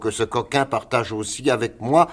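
understated storybook anger, rising in pitch; choleric outburst. Acted. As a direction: play a hot-tempered man hurling an insult. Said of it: "le plus colérique hébreu".

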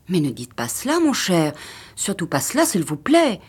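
a hint of a fretful wife; anxious wife. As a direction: beg him not to say it. Wife pleads with her husband.

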